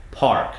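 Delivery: park with a crisp R and clear K at the end; park, the R firm before the K; R word park. Shown as a demonstration. Coach finishing park, crisp R. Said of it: "put a K at the end".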